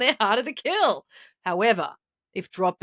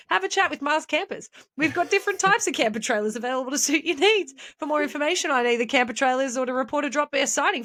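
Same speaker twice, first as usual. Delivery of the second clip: mock ad read; 3 semitones higher than usual. Mock ad read for camper trailers.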